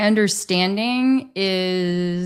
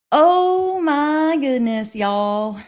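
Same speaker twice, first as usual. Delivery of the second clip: drawn-out, high gasp of disbelief; high, slow "oh my goodness" with real surprise; overwhelmed gush; 9 semitones higher, 6 dB louder, much slower than usual. Real, not acted. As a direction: stretch it out, overcome. Overwhelmed by chat comments.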